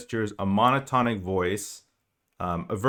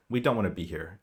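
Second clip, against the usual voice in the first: "We don't wanna be here" said lower and softer, in one flat tone; monotonic; 4 semitones lower, 4 dB quieter than usual. Shown as a demonstration. Coach showing a threatened player's reply: lower, softer, monotonic. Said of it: "kind of monotonic".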